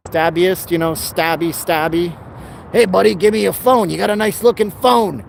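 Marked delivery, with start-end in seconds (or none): 2.7-5.2 put-on higher-pitched old-time New York mugger voice; thirties New York tough. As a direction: do a thirties New York street crook demanding. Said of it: "talking like a guy from the New York in the thirties".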